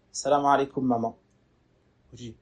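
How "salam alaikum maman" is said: cold greeting. Retold or imitated. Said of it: "Avec une voix étrange".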